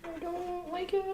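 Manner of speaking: put-on high, slow Valley girl voice. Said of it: "I wanna hear you speak like a Valley girl".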